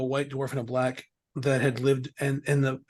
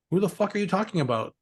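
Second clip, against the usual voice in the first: baffled retort; 6 semitones higher than usual. Retold or imitated. Retold baffled reply to mom.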